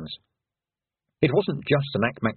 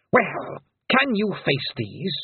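slow, higher menacing challenge; the Queen; 8 semitones higher, slower than usual. A narrator's reading. Queen challenging the Feegles, slow and menacing. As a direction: dare them coldly.

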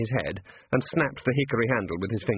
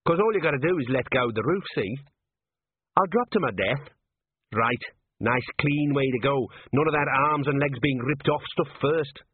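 a hint of a matter-of-fact little gnome; lightly voiced cocky gnome; 3 semitones higher than usual. Gnome advising a man hanging from a roof, lightly voiced and matter-of-fact. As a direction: lightly voice a gnome, higher in places.

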